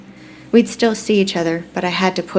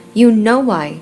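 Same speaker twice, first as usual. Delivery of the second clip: higher, louder retort; mildly angry comeback, pitched up and louder; biting retort; 4 semitones higher, 7 dB louder, slower than usual. A narrator's reading. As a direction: bite back at him. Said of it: "she bit back".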